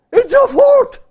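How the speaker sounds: very high, loud squeal of blame; piercingly high, loud accusation; mock accusing child. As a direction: shriek it like a child blaming a parent. Voices the blame in daughter's manner.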